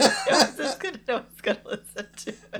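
laughing through the words; can barely talk for giggling. Real, not acted. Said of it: "I have the giggles".

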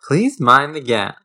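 put-on British transit announcement; measured mock British announcement; British announcer. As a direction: slowly announce it like London transit. Mock London train announcement.

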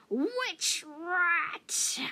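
loud, high demand from a hard-of-hearing elder; croaky old cat cutting in; cranky old cat. A narrator's reading. Half-deaf old cat interrupting the youngster, cranky and loud.

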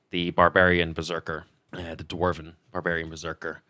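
steady storyteller recap voice; game master narration. Acted. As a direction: set the scene for the players. Game master's scene setting.

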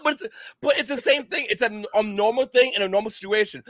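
normal talking voice

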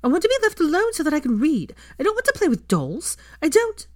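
put-on high, loud girl's outburst; shouted. A narrator's reading. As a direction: shout the younger child away, high-pitched. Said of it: "she shouted at Rose".

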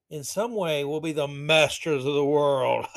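lightly voiced scheming villain; a hint of supervillain grandeur; mock villain. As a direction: build toward a world-domination boast. Reads Schwab quote as villain.

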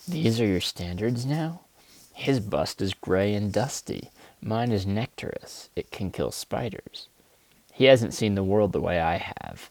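lightly performed spoken-word poem read from a Kindle; understated bitter poem reading. Acted. Reads his poem Standards.

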